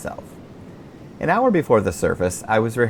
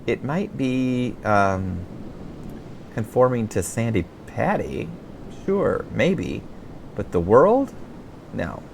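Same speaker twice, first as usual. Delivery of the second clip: quipped; 2 semitones higher, slower than usual. Retold or imitated. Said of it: "then quipped".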